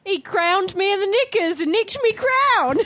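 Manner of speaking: mock British accent. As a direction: ham up a British commoner's accent. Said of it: "all gonna be fucking British".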